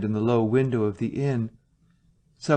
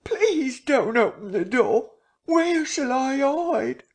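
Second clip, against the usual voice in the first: high, slow frantic begging; terrified pleading; 13 semitones higher, slower than usual. A narrator's reading. Marvel behind the bar, begging them not to open. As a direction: plead desperately to stay hidden. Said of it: "he screamed".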